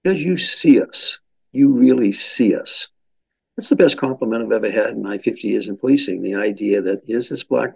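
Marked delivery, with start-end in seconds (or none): 0.0-2.9 higher, emphatic, lightly imitated Southern accent; slow into the ending with a hint of Southern accent; Sweet Alice. Community leader answering police chief, light Southern accent. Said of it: "she had this delightful Southern accent".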